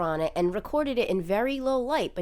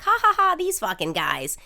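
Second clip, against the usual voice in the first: mock laugh; 3 semitones higher, 4 dB louder than usual. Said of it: "I said something like".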